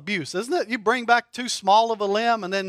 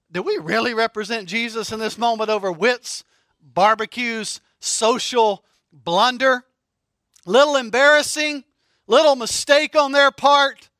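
louder, self-righteous online scold; preachy mock voice; 4 dB louder than usual. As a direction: lecture the church like a pious commenter. Mocking preachy social media post.

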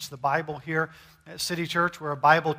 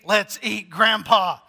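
Let's eat Grandpa in one falling run; run together, no pause; 3 semitones higher, 5 dB louder, slower than usual. Shown as a demonstration. Cannibal joke reading, one falling phrase. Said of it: "or it may be".

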